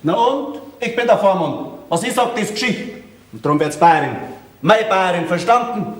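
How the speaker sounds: worked-up, bossy insistence; indignant guardian putting his foot down. Acted. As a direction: lay down the law, getting riled. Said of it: "da brauchst du ja jetzt doch nicht so aufregen".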